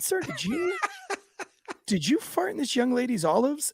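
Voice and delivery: high and laughing through the question; barely holding back a laugh; stifled laughter. Retold or imitated. Rookie cop questioning the husband while cracking up.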